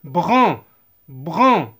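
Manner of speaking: "Bran" with AN as one nasal sound; teacher's clear, falling "Bran"; AN as nasal vowel. Shown as a demonstration. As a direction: sound out "Bran" without any hard N. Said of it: "ننطقها en".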